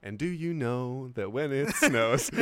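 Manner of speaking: slow, measured mock translation; mimicked interpreter. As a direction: lightly parody a careful interpreter. Mimics the interpreter's repeated question.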